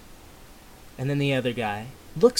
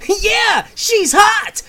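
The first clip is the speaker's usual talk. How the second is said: high, loud leering yelp; drooling excitement; 7 dB louder, much slower than usual. Acted. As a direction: shout it like a guy ogling a girl. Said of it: "drooling and slavering at the mouth, he says".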